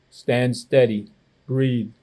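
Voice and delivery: slow, low and steady; calm instruction. Acted. Grandpa steadying the wobbling boy, slow and calm. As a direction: settle him gently.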